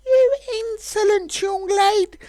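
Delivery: high, slow, offended scolding; indignant dragon. Acted. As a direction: look down on her with disdain.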